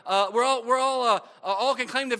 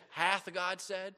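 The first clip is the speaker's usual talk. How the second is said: slow serpent whisper; 2 semitones lower, 7 dB quieter, much slower than usual. Retold or imitated. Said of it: "he whispered".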